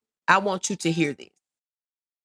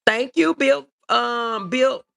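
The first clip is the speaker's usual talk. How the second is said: choked up; 4 semitones higher, 4 dB louder, slower than usual. Real, not acted. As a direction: voice catching with emotion while thanking. Thanking viewer, voice catching.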